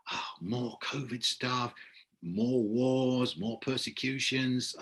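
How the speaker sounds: soft, weary lament; mock dread. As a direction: groan softly through a list of woes. Voicing dread at the coming year.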